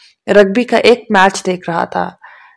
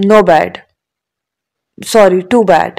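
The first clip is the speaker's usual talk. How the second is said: mock regret; much slower than usual. A narrator's reading. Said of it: "جیسے افسوس کرنے والے انداز میں کہا".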